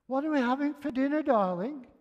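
high, loud, quick call; retold shouting. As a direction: holler it from the kitchen door. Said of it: "I shouted to her".

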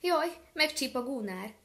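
put-on high, scared little girl's cry; frightened cry. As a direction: cry out afraid of the gander. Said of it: "kiáltotta".

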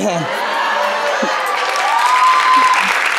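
risada bem aguda e alta; gargalhada aguda. Real, not acted. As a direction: gargalha alto com a plateia. Riso final do show. (gargalhada aguda e alta)

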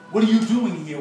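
narrated police demand, voice lifted. A narrator's reading. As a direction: demand an answer like a cop. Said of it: "one of the cops demanded".

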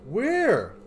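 shrill, loud outraged shock; shocked disbelief. Real, not acted. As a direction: yelp it in disbelief. Room goes dark, shocked.

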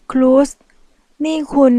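high, loud indignant cry; outraged protest. Acted. Michelle crying out at the mafia man, outraged. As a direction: cry out, scandalised.

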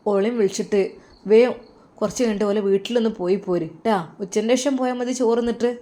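lightly voiced mother, gently urging; mother's voice. Mother tells son to go fetch his wife, lightly voiced mother. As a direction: nudge him along like a caring mother. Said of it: "ഉമ്മ പറഞ്ഞു".

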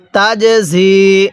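slow recitation, the jim in তাজঝি given a little push; drawn out তাজঝি with a bouncing jim; bounced jim. Shown as a demonstration. Teacher showing students the pushed jim, slow bounced recitation. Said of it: "ধাক্কা দিয়ে পড়তে হবে".

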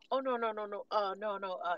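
stammering denial; a nervous worker fumbling no's; flustered stuttering. Retold or imitated. Worker caught out, stammering his denial. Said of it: "he started stuttering".

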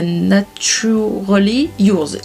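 drawn-out English name in a French accent. Real, not acted. Vlogger naming a palette to viewers, slow French-accented English. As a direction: say it slowly, carefully, with a French accent. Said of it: "Excusez-moi pour mon accent anglais".

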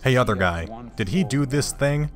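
a hint of a bored judge; mock judge voice. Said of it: "It's just like".

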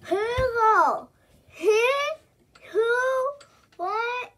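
strained high cry through the sour; wailing as the sour hits; eating sour candy. Real, not acted. Sour candy in mouth, crying out.

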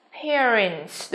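"Parents" with an air glide; AIR vowel. Shown as a demonstration. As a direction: model "Parents" slowly, stressing the air diphthong.

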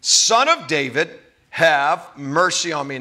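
measured imitation of an insistent cry. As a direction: keep calling for mercy, drawing it out. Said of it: "He kept crying out all the more".

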